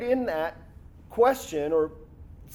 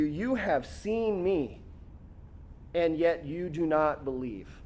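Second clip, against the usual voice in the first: slow emphatic reading; 2 semitones lower, 5 dB quieter, slower than usual. Shown as a demonstration. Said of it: "notice what Jesus says".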